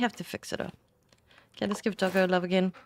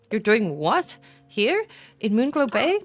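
louder, rising incredulous questions; shocked disbelief; 2 semitones higher, 6 dB louder, slower than usual. Acted. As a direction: read the character's lines as if she can't believe it. Reading character's shocked dialogue.

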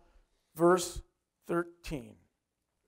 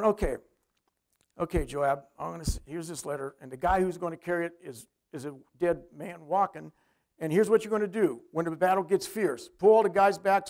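scheming king; 4 semitones lower than usual. Retold or imitated. David voiced plotting with Joab.

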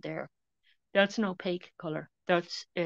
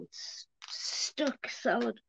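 whispering; 4 semitones higher, much slower than usual. Real, not acted. Lid won't come off.

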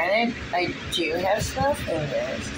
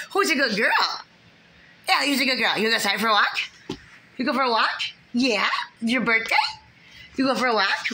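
pet talk; 5 semitones higher, faster than usual. Real, not acted. Owner cooing to her dog about a walk in high pet talk.

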